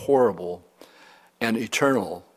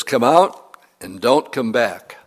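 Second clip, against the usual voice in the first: slow, commanding and a little louder; with authority; 4 dB louder, slower than usual. Retold or imitated. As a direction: order the demon out, firm and unhurried. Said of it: "he said it with authority".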